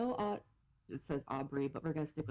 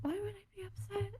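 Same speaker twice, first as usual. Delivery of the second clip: mock disbelief; 14 semitones higher than usual. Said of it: "And I'm like".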